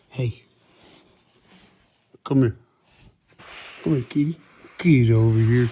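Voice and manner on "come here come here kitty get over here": loud call to come; calling a cat. Real, not acted. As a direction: call out firmly across the room.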